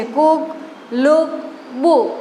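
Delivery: કુક, લુક, બુક separated by pauses, same -ook ending; rhyming word demo. Shown as a demonstration. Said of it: "કુકની જેમ જ થાય છે". (કુક, લુક, બુકનો છૂટો, સરખો ઉચ્ચાર)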